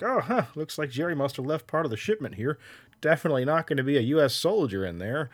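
dopey guard voice; clueless guard. Retold or imitated. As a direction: play a clueless sentry.

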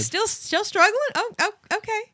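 mock excited commentary. Mock narrating deer learning to walk.

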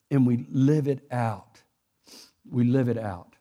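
slow, low, choked-up preaching; measured words, real emotion held back; emotional. Real, not acted. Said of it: "I got emotional".

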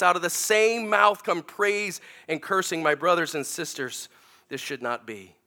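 preacher reading James to the congregation; scripture reading. Acted. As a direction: read the verses with weight. Reads scripture passage.

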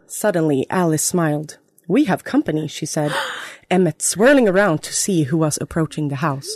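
reading her own fanfic aloud, storyteller style; story narration. Acted. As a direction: read the story to the listeners, lightly dramatic.

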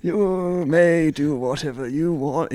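slow, high, mock-grand southern English dad; drawn out like a bad southern dad impression; southern dad accent. Son imitating his dad slowly in a bad southern accent. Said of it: "doesn't sound anything like that".

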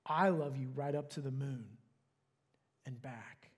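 soft, fading to a whisper; whispered with a smile. Acted. Big hare saying goodnight to the little one, soft whisper with a smile. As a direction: breathe the last words with a smile. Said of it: "whispered with a smile".

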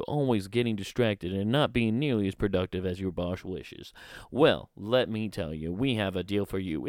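hammed-up TV salesman pitch; infomercial pitch. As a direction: sell it like a late-night infomercial. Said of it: "I should just cut promos for self-help things".

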